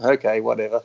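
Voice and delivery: understated, offhand mock brush-off; dry, deadpan dismissal in fun; straight-faced sarcasm. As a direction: toss it off dryly, a little low-key. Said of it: "I would have just said that in fun".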